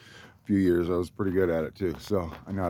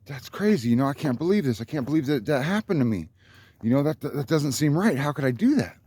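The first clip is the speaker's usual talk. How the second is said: higher voice, mock disbelief; 5 semitones higher than usual. To the driver, mock disbelief about the lost wheel. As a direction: play up your shock over the lost wheel. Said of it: "and I'm like".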